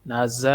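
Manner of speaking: "نہ ز" with a firm, buzzing ز; "ز" pronounced hard, as a strong Z; hard Z sound. Shown as a demonstration. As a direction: press firmly on the ز in "نہ ز". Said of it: "ز کو سختی سے پڑھیں گے".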